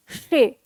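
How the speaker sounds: शे as an isolated syllable, tongue curled; first syllable शे sounded alone; retroflex she. Shown as a demonstration. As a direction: demonstrate शे with retroflex sh. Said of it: "पहले आप मूर्धा के सामने".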